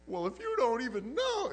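high, huffy wife voice; mock exasperated wife. Wife answering her clueless husband, high and huffy. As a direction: toss it off as the fed-up wife.

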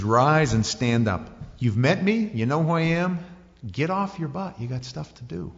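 a hint of a coach-like Jesus; urging Jesus. Jesus commanding Paul up.

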